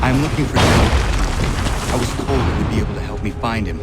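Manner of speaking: loud and fast over battle noise; urgent loud call; shouting. Acted. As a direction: yell to be heard over cannon fire.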